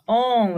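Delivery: "On" sustentado pelo nariz, vibrando; som nasal. Shown as a demonstration. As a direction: segure "On" como O nasal. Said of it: "eu sinto até". ("On" nasalizado e alongado)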